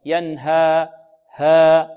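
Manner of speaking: ينهى with its final alif exaggerated, then ها alone loudly; wrong ending. Shown as a demonstration. Teacher showing the faulty ending of ينهى, exaggerated alif. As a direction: push the long ها ending of ينهى hard. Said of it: "لا نختمها بهمزة".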